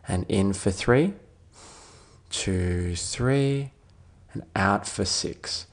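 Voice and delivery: calm, measured meditation voice with long pauses; guided meditation. Real, not acted. Doctor leading a listener towards sleep, calm guided meditation. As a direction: gently guide them through it, leaving space to breathe.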